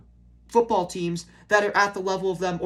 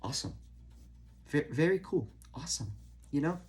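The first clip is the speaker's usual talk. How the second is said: sarcastic; 6 semitones lower, 6 dB quieter than usual. Acted. Sarcastic praise after bad losses.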